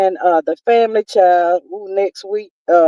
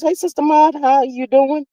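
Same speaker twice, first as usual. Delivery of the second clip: lightly voiced daytime talk host greeting; a hint of a chatty TV host saying hello; Wendy Williams voice; 5 semitones higher than usual. Reading a viewer's greeting in a light TV host voice. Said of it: "In my Wendy Williams voice".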